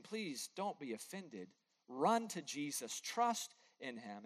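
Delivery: a pastor softly urging listeners to run to Jesus, slow and sincere; earnest plea. Real, not acted. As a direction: coax the congregation toward Jesus, quietly. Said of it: "I plead with you".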